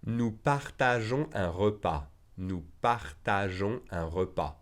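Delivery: slow, clear teacher model sentence; deliberate classroom pace; slow model reading. Shown as a demonstration. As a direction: say it slowly for students to repeat. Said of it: "teacher model sentence, slowed".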